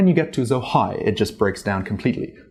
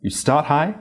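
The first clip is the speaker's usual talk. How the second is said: start high; 4 semitones higher than usual. Shown as a demonstration. Voice acts out the tone height.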